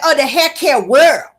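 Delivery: exaggerated, broken-up reading; sounding out words. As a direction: mimic a laboured reader word by word. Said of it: "trying to break her words down".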